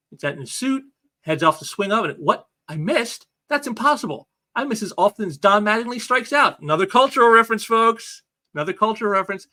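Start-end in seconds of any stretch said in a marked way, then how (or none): 2.2-6.6 shocked disbelief. Retold or imitated. Spider-Man shocked at a miss. 6.6-8.2 loud, fast, high aside; excited emphasis. Real, not acted. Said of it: "repeated for emphasis".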